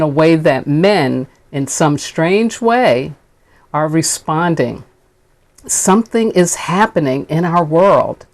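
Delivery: stately public address with weighted pauses; oratorical speech reading. Acted. Minister reading King on peoples rising up, building oratory. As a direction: build phrase by phrase, pitch lifting on the list of places. Reads King's speech aloud.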